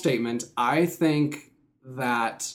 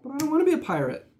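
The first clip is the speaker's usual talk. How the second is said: Seinfeld quote; 13 semitones higher, much faster than usual. Retold or imitated. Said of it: "Seinfeld quote".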